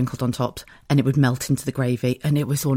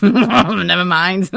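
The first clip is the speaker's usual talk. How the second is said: slow words swallowed by real laughter; laughing; 5 semitones higher, 5 dB louder, much slower than usual. Real, not acted. Host cracking up at her own joke, laughing. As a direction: giggle through it, can barely speak. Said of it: "I'm absolutely crying".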